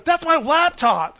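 high-pitched mock alarm; acted-out indignant cry; protesting contestant. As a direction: protest like a contestant whose things are grabbed.

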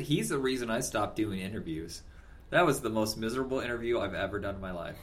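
cutting out on a bad line; garbled, dropping connection; scrambled voice. Real, not acted. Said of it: "you're cutting out so much I can't understand anything you said".

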